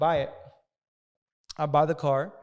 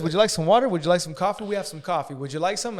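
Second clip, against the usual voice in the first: mock fawning salesman, a touch higher and louder; over-polite salesman; 4 semitones higher, 5 dB louder, faster than usual. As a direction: lay on the eager hospitality. Fawning salesman offers water, coffee.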